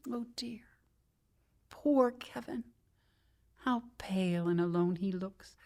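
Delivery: hushed whisper of pity. Acted. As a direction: whisper it over the body. Whispering over the dead.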